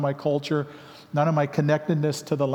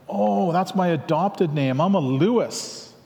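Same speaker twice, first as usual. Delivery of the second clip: slow, raised, drawn-out retold realization; dawning realization; 4 semitones higher, slower than usual. Newcomer finally understands the question about his name, dawning realization. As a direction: let it click as you stretch the words out. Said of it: "it kinda clicks in me".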